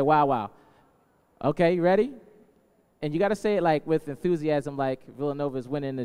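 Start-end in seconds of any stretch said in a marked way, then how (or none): 0.0-0.5 crowd response demo. Shown as a demonstration. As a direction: chant it back loud. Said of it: "everybody say".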